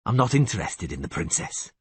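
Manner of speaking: calm. Acted. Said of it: "Geralt said calmly".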